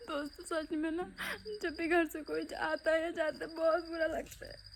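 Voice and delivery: holding back tears; real tearful sadness. Real, not acted. Vlogger tells viewers goodbyes hurt, tearfully. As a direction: confide through welling tears. Tearful after grandmother leaves.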